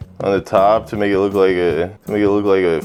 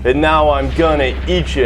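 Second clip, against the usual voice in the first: higher, urgent monster chant; raised mock-menacing creature voice; closet monster; 4 semitones higher than usual. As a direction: build the creepy threat toward the climax. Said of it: "he hears it one more time".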